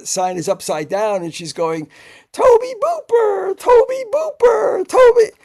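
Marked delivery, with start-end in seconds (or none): 2.3-5.3 much higher, slow, sing-song calling out "Tobe Booper"; driver mispronouncing the name. Retold or imitated. Limo driver calling for her passenger with the wrong name, high and slow. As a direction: call the wrong name loud and high across the arrivals. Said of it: "she's pronouncing Tobe's name wrong".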